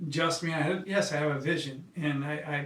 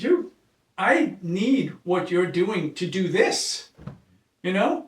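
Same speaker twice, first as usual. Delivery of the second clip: higher and louder, urgent retold plea; earnest plea; 3 semitones higher, 4 dB louder, slower than usual. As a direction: plead with her, pitched up and pressing. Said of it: "Is what I said".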